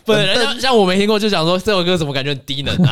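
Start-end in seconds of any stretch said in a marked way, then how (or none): 0.1-1.2 laugh-crying protest. Real, not acted.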